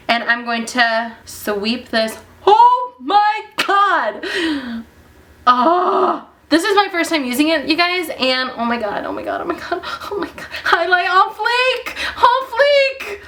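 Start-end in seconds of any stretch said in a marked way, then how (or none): 2.4-13.2 overjoyed, gushing; ecstatic squeal. Real, not acted. Vlogger squealing at her highlight on camera.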